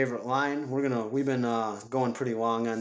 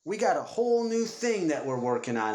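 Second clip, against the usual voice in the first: Sam Jackson impression; 7 semitones higher than usual. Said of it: "it's Sam Jackson, and he's like".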